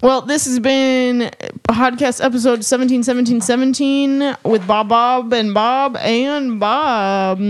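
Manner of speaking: lightly put-on outro announcer; podcast sign-off. Host closes the pretend episode, outro announcer voice. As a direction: roll out the guest list like an outro.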